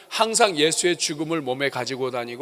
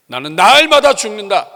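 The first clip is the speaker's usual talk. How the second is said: "나는 날마다 죽는다" much higher and louder, stress on 날마다; loud proclamation; 6 semitones higher, 11 dB louder than usual. Shown as a demonstration. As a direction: proclaim it like a battle cry. ("나는 날마다 죽는다"를 높고 크게, 날마다를 강조)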